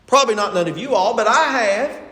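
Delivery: quick mock exemption of the listeners; teasing sarcasm, leaning on the confession; sarcastic. Real, not acted. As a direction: say it with tongue in cheek. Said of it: "I'm being sarcastic".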